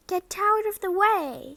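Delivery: high, loud sharp snap; snapped. Acted. Ron snapping at Peeves to move, sharp and loud. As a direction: bite the words off at him. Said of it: "snapped Ron".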